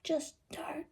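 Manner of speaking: high, odd whisper of "Just don't"; odd whispered take. Shown as a demonstration. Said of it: "I didn't say it like that".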